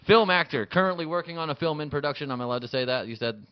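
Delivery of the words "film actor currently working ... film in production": raised, loud announcer delivery; first-take introduction. Acted. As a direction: introduce a guest's credit to the audience. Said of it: "All right, we'll take two".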